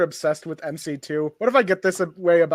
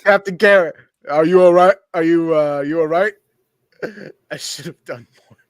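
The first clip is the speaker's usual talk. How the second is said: put-on Baltimore accent; 6 dB louder than usual. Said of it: "how do I do a Baltimore accent again".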